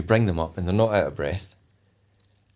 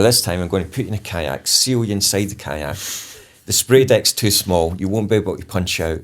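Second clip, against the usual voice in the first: louder, pushing, stern delivery; pressure-building instructor; 3 dB louder than usual. Retold or imitated. Instructor warning trainees about the capsized kayak, louder and pressing. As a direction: pile on the pressure. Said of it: "total change of pace".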